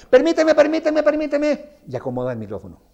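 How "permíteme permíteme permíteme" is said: high, loud, fussy principal; interrupting principal. Retold or imitated. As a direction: cut in sharply, high and loud, like a bossy principal. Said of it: "lo interrumpe la directora".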